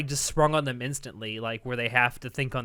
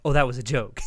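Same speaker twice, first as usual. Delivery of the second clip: deadpan quote of a character; dry, understated throwaway line; 2 semitones lower than usual. Retold or imitated. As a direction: deliver it straight, no lift. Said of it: "with a deadpan expression and goes".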